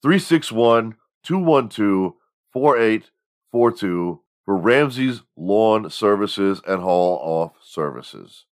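hyped local radio commercial read; half-serious pitch for a friend's haul-off business; mock radio ad. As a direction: sell it like a small-town lawn service ad.

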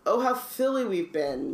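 mock sneer. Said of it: "Malfoy sneered".

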